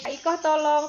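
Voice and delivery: wrong example, demanding tone; bare command. Shown as a demonstration. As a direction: call the name and bark "tolong". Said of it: "nggak cuman".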